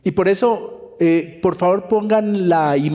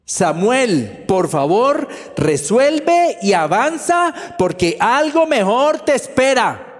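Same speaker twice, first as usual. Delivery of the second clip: slow, raised voice pressing him to move on; urging God; 3 semitones higher, slower than usual. Retold or imitated. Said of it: "lo empujó a resolver".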